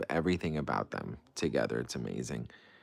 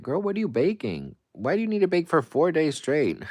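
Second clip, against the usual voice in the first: much higher, louder mock disbelief; high incredulous voice; 10 semitones higher, 5 dB louder than usual. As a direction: shriek it like a shocked best friend. Mock-shocked question to viewer.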